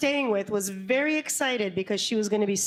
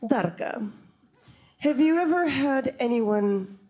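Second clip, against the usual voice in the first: chiropractor. Acted. Chiropractor voiced asking an eerie question.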